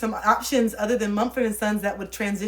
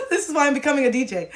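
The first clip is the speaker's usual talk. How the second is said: laughing; 5 semitones higher, 4 dB louder, faster than usual. Real, not acted. Laughing rant about becoming a DJ.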